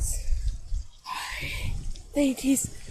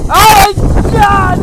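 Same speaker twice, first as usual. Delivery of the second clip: surprised; 4 semitones higher, 8 dB louder, much slower than usual. Real, not acted. Shocked at the creepy place.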